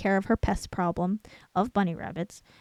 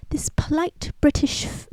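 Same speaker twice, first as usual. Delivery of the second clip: whispered try; 6 semitones higher than usual. Shown as a demonstration. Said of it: "That's not an accent".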